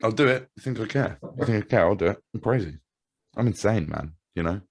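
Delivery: wild-eyed crazy boast; hammed-up unhinged threat; manic mock threat. Playing a crazed threat.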